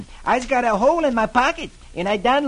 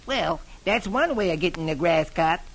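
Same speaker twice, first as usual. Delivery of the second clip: happily. Acted. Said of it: "happily saying".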